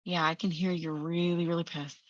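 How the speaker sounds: low, soft acknowledgement; acted sympathetic listening. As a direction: hear them out gently. Acted sympathetic listener to angry part.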